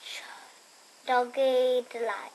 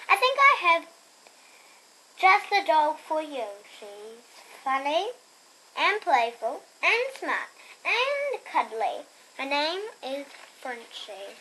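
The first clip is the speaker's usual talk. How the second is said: shelter lady. Acted. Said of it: "And she says".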